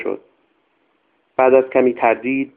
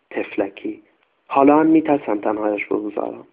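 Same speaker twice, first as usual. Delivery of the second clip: lightly voiced old servant, anxious, insisting; a hint of a superstitious old nanny pleading her case; old servant woman. Old servant explains about Goli. (خدمتکار پیر، کمی نگران و مصر)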